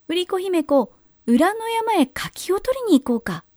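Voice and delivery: high, sugary coaxing invitation; sly sweet ogre. A narrator's reading. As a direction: lure her sweetly. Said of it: "と、アマンジャクが言いました".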